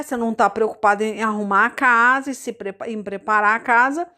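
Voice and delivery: ordinary talk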